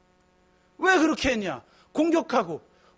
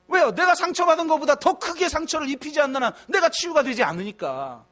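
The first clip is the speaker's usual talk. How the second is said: ordinary talk, nothing marked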